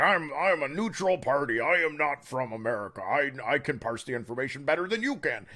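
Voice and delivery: imitating a self-assured Brit's accent; mock British accent. Podcaster mimicking Brits who claim to be neutral, mock British accent. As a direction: put on a hammy British accent. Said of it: "all these Brits, like, Peter McCormick".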